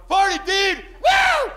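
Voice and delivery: high, rowdy party yell; party shout. Acted. Stoned guy going up to everybody at the party, rowdy shout. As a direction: whoop it up like an obnoxious party jerk.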